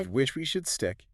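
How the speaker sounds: high, mock-formal butler voice; stiff Victorian butler. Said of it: "you sound like a Victorian butler".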